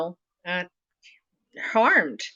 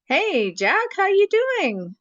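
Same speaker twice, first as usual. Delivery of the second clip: numb mouth, slow, higher; numb from the dentist; 13 semitones higher, 4 dB louder, slower than usual. Real, not acted. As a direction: talk through a frozen numb mouth. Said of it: "My mouth is frozen here and here".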